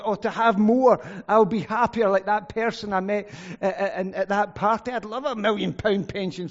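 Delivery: lightly voiced greedy longing; mock wistful craving. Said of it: "thought Paul".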